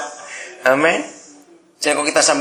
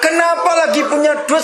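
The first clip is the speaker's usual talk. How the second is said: ordinary delivery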